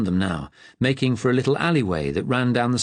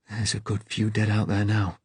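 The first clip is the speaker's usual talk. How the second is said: trembling voice. Acted. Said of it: "His voice was trembling".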